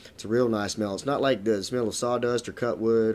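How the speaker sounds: talking while sniffing cigar; cigar held to lips. Real, not acted. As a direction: cigar pressed on upper lip. Seen 1: Unlit cigar held across upper lip while sniffing and talking.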